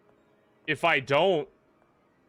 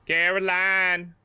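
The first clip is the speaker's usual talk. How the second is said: name stretched long and pitched up; slow, drawn-out, higher-pitched reproach; exasperated call; 6 semitones higher, slower than usual. Real, not acted. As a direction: call out to a useless partner. Exasperated call to game companion.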